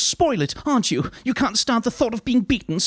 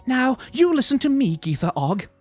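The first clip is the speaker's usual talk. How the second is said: high, louder telling-off; stern scolding; 5 dB louder than usual. A narrator's reading. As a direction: lay down the law to her. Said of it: "Lettuce waved a finger sternly".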